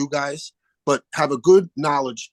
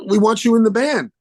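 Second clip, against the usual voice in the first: put-on Australian accent; 8 semitones higher, 6 dB louder than usual. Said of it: "this wonderful guy from Australia".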